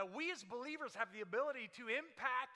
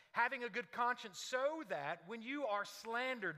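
louder, measured reading of the text; scripture reading; 3 dB louder than usual. Acted. Pastor reads First Peter to the congregation, solemn and deliberate. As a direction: proclaim the verses with weight.

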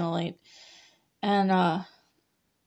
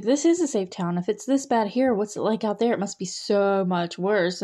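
mock naive Chrissy. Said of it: "she's like".

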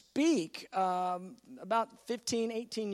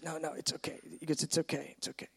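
soft reassurance; 4 semitones lower, 7 dB quieter, faster than usual. Retold or imitated.

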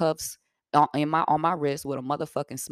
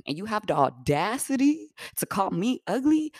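sassy; 3 semitones higher than usual. Retold or imitated. Retold confrontation on Facebook.

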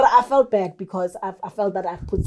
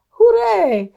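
high, louder little hooray; token cheer; 11 semitones higher, 5 dB louder than usual. Acted. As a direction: give a brief pitched-up cheer. Mock celebrating those who stay.

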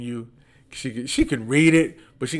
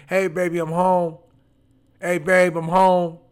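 cheerful wife; 7 semitones higher, 7 dB louder than usual. Retold or imitated. Wife's cheerful homecoming voiced.

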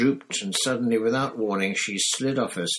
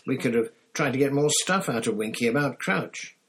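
annoyed Ron; 4 semitones higher than usual. Acted. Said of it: "said Ron angrily".

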